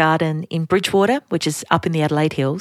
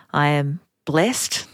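straight face; 2 semitones lower, slower than usual. Shown as a demonstration. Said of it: "I wanted to say that with a straight face".

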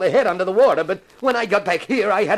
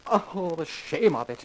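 slow despairing lament; 3 semitones lower, 7 dB quieter, slower than usual. Acted. Accomplice repeats his lament.

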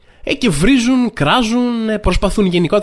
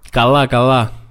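put-on lower, dismissive drawn-out kid voice; bored teen brush-off; 4 semitones lower, slower than usual. Son brushing off his scolding mother, lower and dismissive. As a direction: shrug her off like a teenager who couldn't care less. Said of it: "γυρίζει το παιδάκι... και της λέει".

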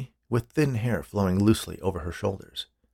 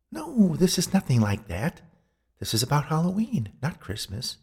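high woman's voice, correcting him; high-pitched spirit setting him straight; insistent ghost woman; 7 semitones higher than usual. A narrator's reading.

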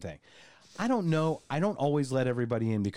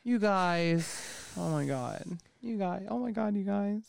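mock gushing; 9 semitones higher, slower than usual. Over-the-top excitement.

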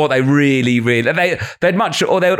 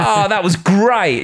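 mock delighted crowd; 7 semitones higher, much slower than usual. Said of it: "It's like".

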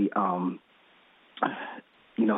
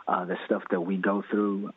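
ordinary talk

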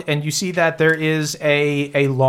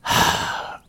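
weary sigh. Acted. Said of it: "kind of sighs".

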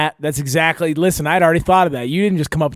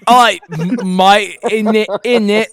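put-on higher, stuttering British-Australian accent; 4 semitones higher, 5 dB louder than usual. Host attempting accents for the voice changer in muddled British-Australian. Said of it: "British and Australian mixed into one".

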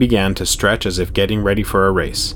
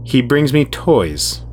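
much higher, louder, gleeful and eerie; Herod's creepy voice; 6 semitones higher, 3 dB louder than usual. A narrator's reading. Herod tells Jude his secret, eerie and high. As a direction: savour every word like a predator.

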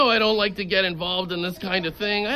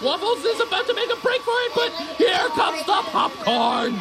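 excited commentator shout; 8 semitones higher than usual. Acted. Play-by-play of the chase.

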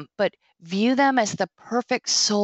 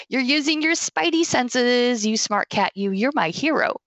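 praising pet talk; 5 semitones higher than usual. Shown as a demonstration. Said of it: "So you wanna say".

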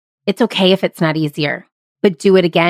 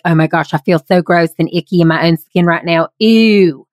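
grossed out. Retold or imitated. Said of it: "they get sweaty and their armpits perspire".

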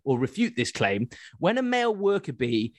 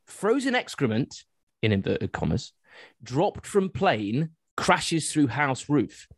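headline read; slower than usual. Acted. Reading out a news headline.

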